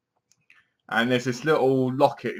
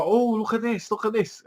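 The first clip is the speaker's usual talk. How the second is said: put-on excited kid; 9 semitones higher than usual. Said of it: "he's like".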